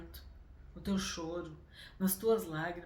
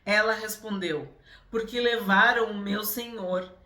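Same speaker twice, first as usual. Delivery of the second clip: scripture reading; 4 semitones higher, 9 dB louder than usual. Acted. Reads the Gospel passage aloud.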